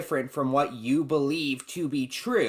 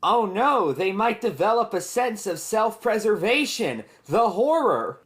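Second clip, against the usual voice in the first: mock alarm, dripping with sarcasm; sarcastic; 5 semitones higher than usual. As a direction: fake horror, laying the sarcasm on thick. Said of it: "I say that sarcastically".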